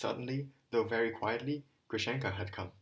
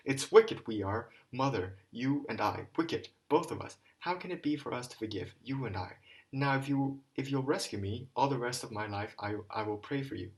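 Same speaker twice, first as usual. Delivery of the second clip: venomous malice; 2 semitones higher, 5 dB louder than usual. Acted. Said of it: "venomous, malice-poisoned voice".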